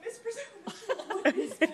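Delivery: high, loud calling for help. Retold or imitated. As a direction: call across the room for Miss Brazil. Calling for Miss Brazil.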